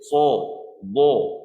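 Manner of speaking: "So, bo" as thick Arabic sad and dad; huruf tebal. Shown as a demonstration. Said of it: "kita sebut huruf sad tadi". (sebutan "So, bo" tebal, lidah naik)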